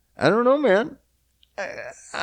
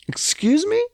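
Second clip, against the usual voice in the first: mock incredulous whisper. Mock indignant at store rules.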